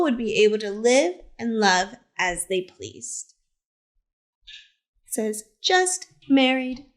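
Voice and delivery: gentle, expressive picture-book narration; reading to children. A narrator's reading. Teacher reads Harvey Milk's story to the class, storytelling voice. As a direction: tell it like story time on the rug.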